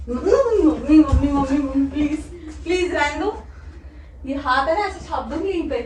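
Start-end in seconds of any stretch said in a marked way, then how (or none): 0.1-3.3 laughing pleas while tickled; squealing for mom mid-tickle; being tickled. Real, not acted.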